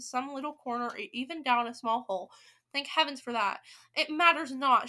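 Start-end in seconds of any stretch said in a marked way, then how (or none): 3.9-4.9 loud, commanding witch; imperious raised voice; shouting. A narrator's reading. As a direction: dismiss it forcefully. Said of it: "shouted the Grand High Witch".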